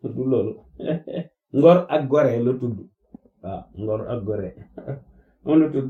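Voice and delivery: real chuckles between short phrases; amused chuckling. Real, not acted. Naming the document to listeners, amused and chuckling. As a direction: say it through a little laugh.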